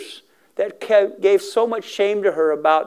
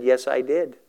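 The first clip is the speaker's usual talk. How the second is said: lower, subdued nervous admission; retold nervous answer, understated; 3 semitones lower than usual. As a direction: admit it cautiously, pitch held down. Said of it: "She got nervous".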